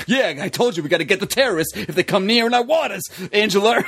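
mock tough-guy impression; lightly put-on blustery voice; cheering Chris Christie. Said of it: "Chris Christie would be cheering it on".

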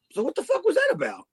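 high, incredulous cry; baffled outburst. Retold or imitated. Kid in the crowd, high and incredulous after the lights trick. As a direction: ask it in total disbelief. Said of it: "We were like".

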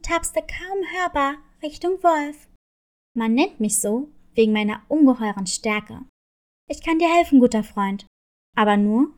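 a big cat showing off his strength; strong father. Acted. Leo bargains with wolf.

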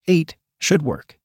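slow, rasped-out reply; raspy voice. A narrator's reading. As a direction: rasp it out, slowly. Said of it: "he rasped out".

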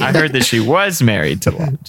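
"was" picked out as the key word; stress on WAS. Real, not acted. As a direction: lean on "was", implying it is over. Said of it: "Was is the, the emphasis word there".

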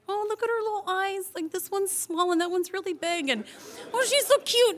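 high gushing coo; cooing over baby. Retold or imitated. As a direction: gush like a smitten new mom. Gushing over baby's uneven eyes.

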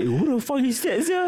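high-pitched scolding shout, lightly played; retold shout. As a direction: shout it like someone scolding a whole class. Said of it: "like, shout, you know".

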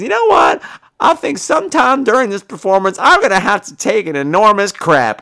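playing her partner's chipper warning after a McFlurry; imitating partner. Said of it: "he turns to me and says".

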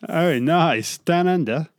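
a hammed-up Aussie "Oh, nice, down under"; tossing off a weak Australian twang; bad Australian accent. Interviewer mocking a down-under greeting, in a bad Australian accent. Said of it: "That's a bad Australian accent".

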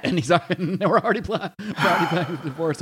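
laughing. Real, not acted. Joking about planned divorce.

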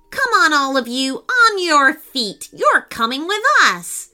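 high-pitched, bossy round-up; barked order. Acted. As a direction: order the captives onto their feet. Monkeys order captives to march.

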